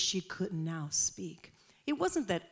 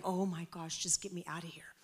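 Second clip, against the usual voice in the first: muted dread; 6 dB quieter than usual. Retold or imitated. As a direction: mutter a wish to escape. Inner wish to escape the celebration.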